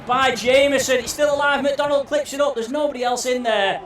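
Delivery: high shouted chance call; excited shout. Real, not acted. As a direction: call it as it nearly goes in. Hat-trick chance saved.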